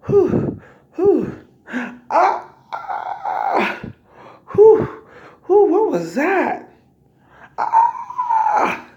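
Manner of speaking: loud, high whoops and cries; acted cramp pain. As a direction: gasp and wail through a sudden cramp. Re-enacts cramp pains in car.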